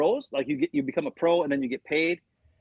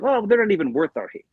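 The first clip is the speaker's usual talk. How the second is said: higher-pitched imitation of dismissive pride; mock superior; 5 semitones higher, 4 dB louder than usual. Packers looking down on other teams, mock superior. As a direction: act too good to bother with rivals. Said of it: "they think they're better than everybody".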